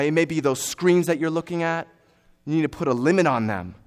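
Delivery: forceful, urgent sermon delivery; emphatic preaching. Real, not acted. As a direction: preach it hard, leaning on the key words.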